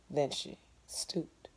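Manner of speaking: hushed, slow whisper; whispered narration. A narrator's reading. Narrator hushing the tense moment, whispered. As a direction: draw them into the dark.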